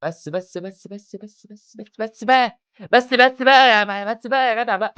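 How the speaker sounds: from a hushed hiss up to a loud, high plea; building stop. Acted. Telling the dancer to stop, hushed at first, then a loud plea. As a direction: start hushed, then explode.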